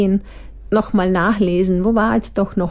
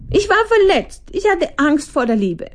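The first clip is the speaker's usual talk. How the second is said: higher wounded plea; 9 semitones higher than usual. Acted. Victim confesses her fear.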